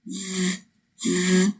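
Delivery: z as a long buzzing TH; sustained voiced friction, z, repeated; voiced TH sound. Shown as a demonstration. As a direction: hold the TH with vibrating vocal cords. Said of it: "是需要进行声带震动的".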